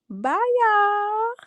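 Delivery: tearful, breathy whispered goodbye; fighting tears as she signs off; holding back tears. Real, not acted. Sick woman saying goodbye to viewers, tearful whisper. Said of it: "I'm trying not to cry".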